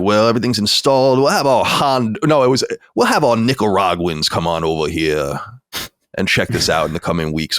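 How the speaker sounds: imitating a Southern installer's accent, slowed on the Nicaraguans line. Sprinkler installer telling the new homeowner about his crew, lightly imitated Southern accent. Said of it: "I'll just do my Southern accent".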